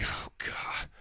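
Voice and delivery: unvoiced weary whisper; whispered groan. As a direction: breathe it out in exasperation. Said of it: "And I'm like".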